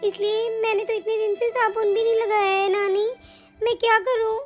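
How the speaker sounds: put-on high little girl telling on her aunt; a small girl tattling plaintively; childlike complaint. Granddaughter complaining to her grandmother about her aunt, high and childlike.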